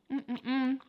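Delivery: closed-mouth hum while chewing; muffled chewing hum. Real, not acted. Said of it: "I don't wanna talk with my mouth full".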